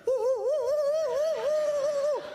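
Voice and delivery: high, loud excited hooting; excited woo. Retold or imitated. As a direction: hoot with delight like a thrilled husband. Husband excitedly reacting to kindness.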